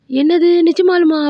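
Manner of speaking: high, loud retold outcry; astonished shout. Dava hears the secret, shouts in astonishment. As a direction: cry out in disbelief, drawn out. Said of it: "சத்தமா கத்துவான்".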